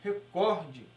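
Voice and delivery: slow, careful "recorde" with stress on "cor", re-CÓR-de; "recorde" said slowly, stressed on the second syllable; correct pronunciation. Shown as a demonstration. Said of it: "e sim recorde".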